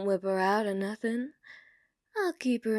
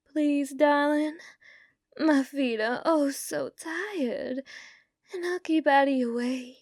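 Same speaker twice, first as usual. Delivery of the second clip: pleading; 5 semitones higher than usual. Acted. Begging bartender to stay.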